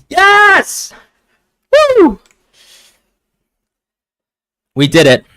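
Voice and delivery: shrieking high and loud with joy; laughing triumphant yell; victory scream. Real, not acted. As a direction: erupt at the final whistle. Team wins the match.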